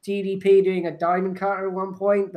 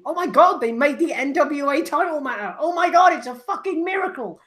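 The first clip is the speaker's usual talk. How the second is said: higher-pitched imitation of excited fans; mildly amazed fans; 6 semitones higher than usual. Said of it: "everyone come away from that thinking".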